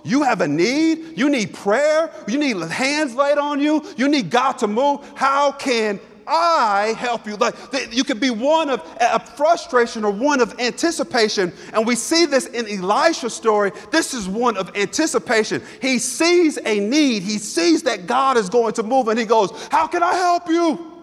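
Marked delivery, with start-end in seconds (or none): 0.0-7.4 rising eager questions, slowing at the end; excited. Shown as a demonstration. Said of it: "I'm getting excited". 19.7-20.9 high eager offer of help; excited. Shown as a demonstration. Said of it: "there's an excitement in this question".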